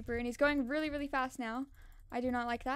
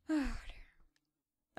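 whispered dismay; 2 semitones lower, 6 dB quieter than usual. Real, not acted. Quiet dismay after a sigh.

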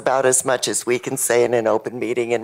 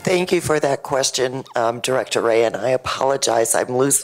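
lost voice, rough and strained; hoarse. Real, not acted. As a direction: push words through a worn-out voice. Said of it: "I've lost my voice today".

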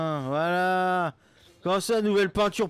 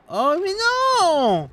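angry outburst; 5 semitones higher, 4 dB louder, much slower than usual. Real, not acted. Angry at the game.

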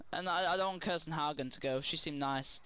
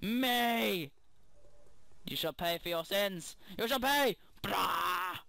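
evil queen; much slower than usual. Acted. Raging villain monologue at soldiers.

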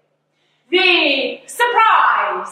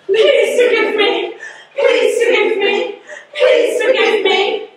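rushed mock plea for forgiveness; Irish Catholic moan; 5 semitones higher, faster than usual. Comic demo of an Irish Catholic moan, fast pleading. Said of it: "The Irish Catholic moan".

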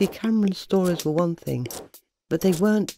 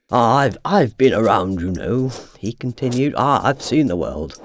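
a touch lower, proud and a bit hesitant; lightly voiced lower boasting cabinet; 5 semitones lower than usual. Old cabinet boasts to Malcolm, lightly lowered proud voice. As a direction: play the old cabinet showing off a little. Cameron boasting he's been around.

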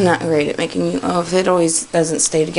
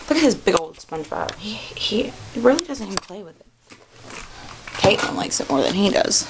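panting between words; breathless from cleaning; out of breath. Real, not acted. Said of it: "Yes, I'm out of breath".

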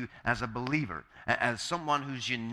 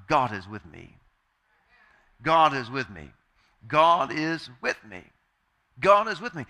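calm self-assurance; 4 dB louder than usual. Shown as a demonstration. Preacher models reminding yourself after a breath, calm building to firm. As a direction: settle yourself, then affirm it with growing conviction.

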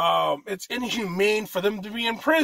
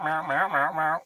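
cat meowing; 4 semitones lower than usual. Retold or imitated. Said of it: "Meanwhile, the cat's just meow".

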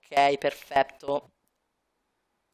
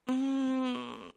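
usual speaking voice

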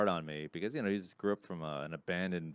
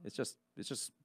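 mock vaping enthusiast; 5 semitones higher, 3 dB louder than usual. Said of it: "Now it's like".

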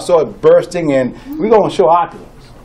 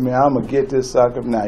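sneaky aside; 7 semitones lower, 6 dB quieter, faster than usual. Retold or imitated. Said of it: "He sneaked and said".

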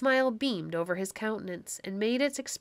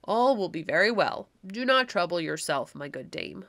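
kindly; 2 semitones lower than usual. Acted. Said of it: "replied the elder stranger kindly".

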